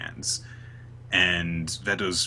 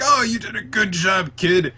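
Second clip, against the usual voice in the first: mock gushing praise; 11 semitones higher, 4 dB louder than usual. Acting friends hugging Asta.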